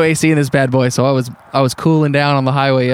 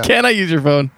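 mock polite request; 3 semitones higher than usual. What the stranger should have asked, mock polite request. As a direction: pitch it up as a pretend courteous ask. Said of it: "the energy of walking up and just being like".

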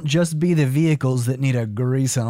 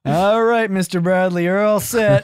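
mock mechanic; 4 semitones higher than usual. Mechanic finishing the job.

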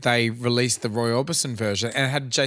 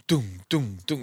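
imitated techno beat; 2 semitones lower, 4 dB quieter than usual. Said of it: "it's got like doom".

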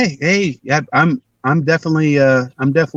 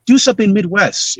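raised, slowed-down instruction; retold casting director; 7 semitones higher than usual. Casting people directing an auditioning actor, higher mock-eager request. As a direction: imitate an eager director asking, pitched up.

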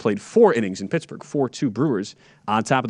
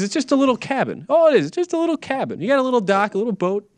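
defensive insistence; 11 semitones higher than usual. Real, not acted. Insisting lake house is small.

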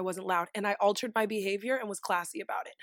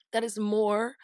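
composed, slightly lowered reply; classy, calm; 2 semitones lower, 3 dB quieter than usual. Retold or imitated. Grown woman answering a stranger's complaint, classy and calm. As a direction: keep it measured and controlled. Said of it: "so fucking classy and calm".

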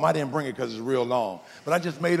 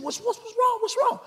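imitated wife, very high-pitched and anxious; mock a woman's high, fretting questions; worried wife. Wife asking her husband what is wrong, high worried imitation.

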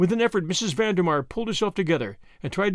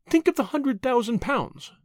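slow, higher coaxing soothe; calm her down gently, slowly; mildly soothing reassurance; soothingly; 8 semitones higher than usual. A narrator's reading. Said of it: "said Tuppence soothingly".

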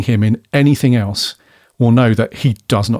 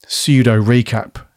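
whispered aside; slower than usual. Real, not acted. Aside mocking TV recap habit.

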